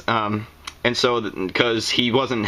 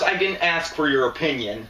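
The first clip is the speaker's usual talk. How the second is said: annoyed retort; 5 semitones higher than usual. Acted. Snaps back at heckler.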